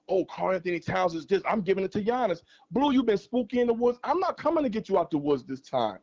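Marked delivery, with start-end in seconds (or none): 0.1-2.4 mocking whine. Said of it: "you sitting here complaining about".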